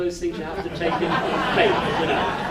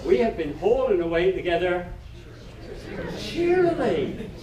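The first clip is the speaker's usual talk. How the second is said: amused emphasis. Shown as a demonstration. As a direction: land "cheerily" as the punchline.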